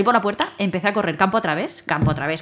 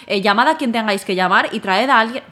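angry demand; 4 dB louder than usual. Retold or imitated. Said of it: "me enfadé".

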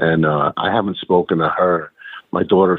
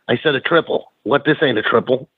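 indignant Boston gripe; 5 semitones higher than usual. Retold or imitated. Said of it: "look at it and go".

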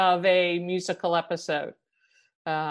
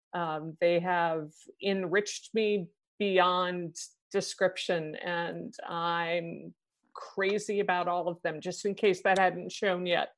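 emotional, softly; 2 semitones lower, 6 dB quieter than usual. Real, not acted. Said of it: "obviously very emotional".

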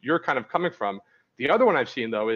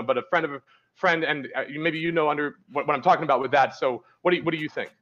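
mock nervous rambling. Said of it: "it came out like".

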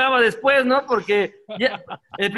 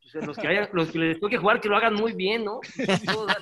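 much softer, to himself; muttered aside; 3 semitones lower, 5 dB quieter than usual. Retold or imitated. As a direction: mumble it resigned. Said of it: "Yo dije". (murmurando resignado en la banca)

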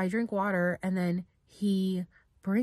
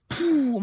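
loud, high puffed "poof"; imitated blast; 7 semitones higher, 6 dB louder than usual. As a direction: burst it out like an explosion of air. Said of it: "it was like".

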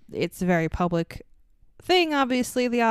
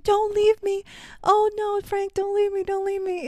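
much higher, pleading, hammed-up despair; mock desperate plea; 11 semitones higher than usual. Retelling the heroine begging her wounded bodyguard, hammed-up pleading. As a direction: wail it like a hammy movie heroine. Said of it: "And she's like".

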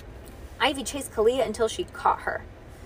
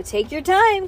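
higher, louder cheerful call; eager call; 9 semitones higher, 6 dB louder than usual. Acted. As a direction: call it out happily.

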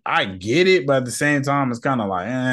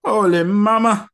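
excited exclamation; 7 semitones higher, 4 dB louder than usual. Retold or imitated. Scrolling photos, spotting a booty, loud high squeal. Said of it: "You be like".

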